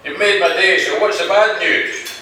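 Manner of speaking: mildly enthusiastic, pitch lifting. Acted. CEO thanks his lawyer for good news, mildly enthusiastic. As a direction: congratulate with a touch of eagerness. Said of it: "he replies enthusiastically".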